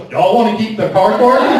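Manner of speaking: mild mock Appalachian twang; a hint of southern box boy; southern drawl. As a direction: box boy echoes in a light southern accent. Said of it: "And he looks at me and goes".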